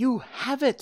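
very high, breathless gasped cry. A client, just handed his lost gems, speaks; gasped. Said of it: "he gasped".

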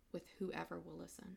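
ordinary talk

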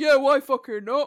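loud, booming, high, slow mocking voice. Imitating another speaker agreeing to drive trucks: imitating another speaker. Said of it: "Great impression".

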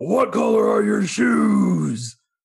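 loud, raspy, cringy hero voice, "shoes" drawn out. Retelling what he asked her while she half watched, in a cringy Batman voice. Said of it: "you know how cringy his Batman voice is".

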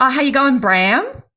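Australian twang with upward lilt, rising at the end. Imitating how Australians talk: Australian twang with rising end. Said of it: "the way that they speak is they go up".

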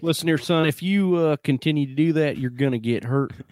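put-on Texas accent. Imitating a coach warning a player, in a Texas accent. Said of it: "if you're from Texas, this is how you talk".

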